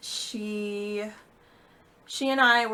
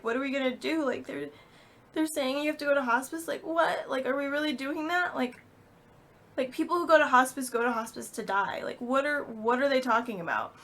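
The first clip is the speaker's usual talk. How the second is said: higher-pitched, incredulous questioning; bewildered disbelief; 6 semitones higher than usual. Retold or imitated. Daughter silently asking mom what to do, bewildered. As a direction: question it in rising confusion and alarm. Inner panic waiting for mom's guidance.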